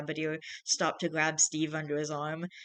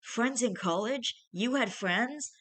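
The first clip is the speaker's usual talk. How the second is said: higher-pitched, drawn-out disbelief; shocked; 6 semitones higher, slower than usual. A narrator's reading. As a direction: ask slowly, stunned and incredulous. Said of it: "Marshall asked in shock".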